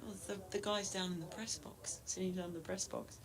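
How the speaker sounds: hushed, voiceless aside; whisper. Real, not acted. Confiding to his co-commentator about the press box, whispered. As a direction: lean in and whisper it.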